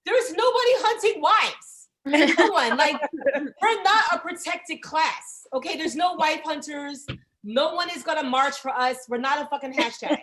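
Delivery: loud and high, mocking outrage; loud comic rant. Comic telling wives, loud mock-outraged rant. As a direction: shout the absurdity at the room.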